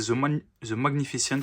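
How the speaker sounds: English name in a real French accent. Real, not acted. Vlogger reading a firework's English name, French accent. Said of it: "désolé pour mon accent anglais".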